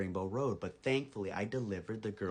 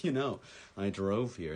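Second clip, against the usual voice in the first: slow, drawn-out casual flex; cool brag; 4 dB louder than usual. Retold or imitated. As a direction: say it slowly, showing off to the girls. Showing off to two girls.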